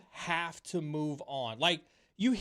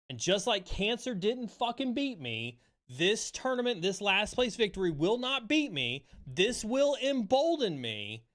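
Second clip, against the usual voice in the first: defiant vow; 5 semitones higher than usual. Real, not acted. Defiant vow after loss.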